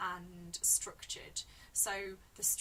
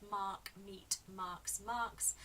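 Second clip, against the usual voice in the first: "mark, meet, marks, marks" as separate words, each M marked; stressed M sounds; much slower than usual. Shown as a demonstration. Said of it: "repeated plosive M sound".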